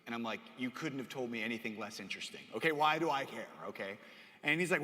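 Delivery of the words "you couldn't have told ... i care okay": low, deadpan boredom; utterly uninterested. Acted. Brother reports sister's wisdom teeth, bored reply. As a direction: dismiss the news in a low tone.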